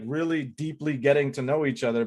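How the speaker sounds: normal talking voice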